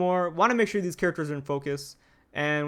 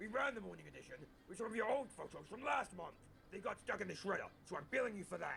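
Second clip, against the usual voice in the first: gruff put-on editor voice, quieter; 18 dB quieter than usual. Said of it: "really good impression of J J".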